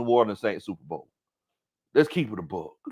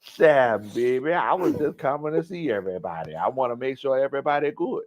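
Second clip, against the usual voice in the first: imitated New Orleans accent. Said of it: "she had the heaviest New Orleans accent".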